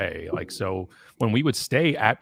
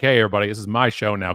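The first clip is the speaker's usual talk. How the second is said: mock angry takeover; 6 dB louder, faster than usual. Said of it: "'cause I'm angry".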